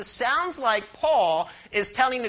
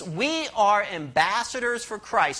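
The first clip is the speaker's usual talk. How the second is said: slow call for the congregation to repeat. Shown as a demonstration. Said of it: "Say these words with me".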